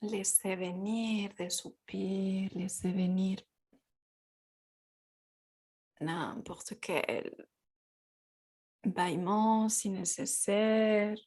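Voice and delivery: calm, unhurried guidance with long pauses; guided yoga. Real, not acted. Guides a gentle yoga practice.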